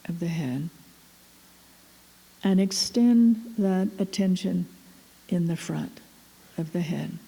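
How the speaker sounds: unhurried meditation guide, long pauses between phrases; guided meditation. Real, not acted. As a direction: guide attention gently, phrase by phrase.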